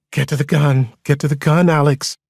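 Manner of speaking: screaming voice. A narrator's reading. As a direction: cry out an urgent command. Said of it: "Maria's voice screaming in my head".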